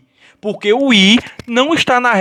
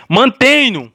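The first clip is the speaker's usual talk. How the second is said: "Mantenho" high, weight on TE; stress on middle syllable; 5 semitones higher, 4 dB louder, slower than usual. Shown as a demonstration. Teacher repeating the pattern on another verb, strong stress on TE in "Mantenho". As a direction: punch the TE of "Mantenho". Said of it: "Mesmo jeito".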